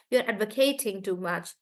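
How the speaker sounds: "advocating" with a strong KATE; verb stress. Shown as a demonstration. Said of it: "Then I say advocate".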